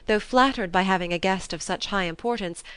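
plain reading voice

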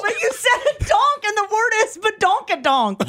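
high-pitched, laughing protest. Real, not acted. Cracking up over a colleague's mangled name, laughing. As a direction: argue it through helpless giggles.

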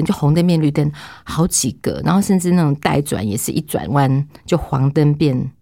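ordinary talk

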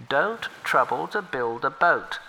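humble river turtle offering help. Acted.

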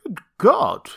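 high, stunned gasp of words; shocked exclamation. Acted. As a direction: react to something horrible. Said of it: "he repeated".

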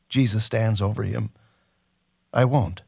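steady, measured reading of a novel passage; story narration. A narrator's reading. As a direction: read it like a dramatic audiobook. Host reads novel passage aloud.

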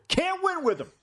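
high, emphatic coach quote; Mike Singletary. Retold or imitated. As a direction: sell the famous coach line. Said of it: "To, to quote Mike Singletary".

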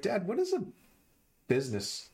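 put-on high curious child voice; kid voice. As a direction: ask it like a young teen. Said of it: "He's like".

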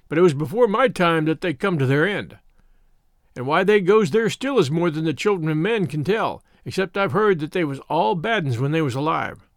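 lightly voiced, insistent rustic elder; old country shepherd. Shepherd telling boys about the neglected field, mildly insistent. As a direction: lay it out in mild country dialect.

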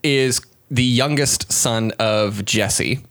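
slow, weighty storyteller delivery; solemn announcement. Pretend. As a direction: spell it out slowly like a big reveal. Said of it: "Wow. Again".

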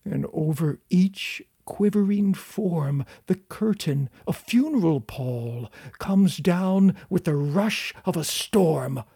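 dramatic poem recitation, slow and whispery; stiff memorized speech. Shown as a demonstration. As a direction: recite it like a Gothic school recital. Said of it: "I memorized this poem by heart ... It goes like this".

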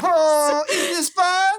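high, sing-song cheerful mock; hammed-up cheerful ghost.

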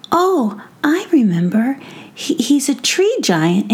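put-on a kid remembering excitedly; child voice. Sander remembers giant.

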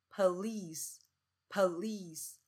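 "police" as puh-LEECE; schwa first syllable. Shown as a demonstration. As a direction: say "police" with a short weak first vowel. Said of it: "是police，police".

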